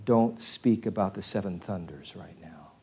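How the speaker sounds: whispered command, unvoiced and low; a quiet forbidding whisper from heaven; hushed divine voice. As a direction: breathe the warning like a secret. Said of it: "And then the voice says".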